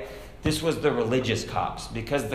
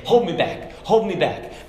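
mock hold me back; 5 semitones higher, 4 dB louder than usual. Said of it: "they put their own hand on themselves and they say".

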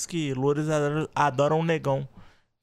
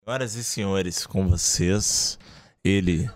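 booming stage introduction; 5 dB louder, slower than usual. Pretend. Announcing guest on podcast.

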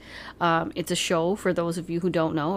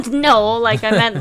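higher, louder, laughing objection; laughing protest; 4 semitones higher, 9 dB louder than usual. Real, not acted. Woman correcting her partner's teasing guess, laughing. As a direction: laugh while correcting a misunderstanding.

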